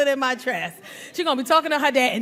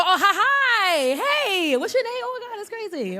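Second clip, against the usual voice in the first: fake flirty greeting; 6 semitones higher than usual.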